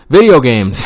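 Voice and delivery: a loud, laughing payoff. Shown as a demonstration. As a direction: punch it the third time. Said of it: "you ask?".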